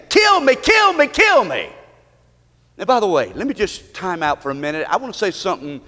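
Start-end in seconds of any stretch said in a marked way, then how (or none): 0.1-1.7 high, mock scream without much added volume; imitated screaming. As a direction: retell the girl's cries in a raised pitch. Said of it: "who was screaming".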